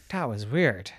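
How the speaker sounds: hushed whisper to herself. Acted. Girl alone in the cave, unsettled whisper. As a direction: breathe it out under the breath.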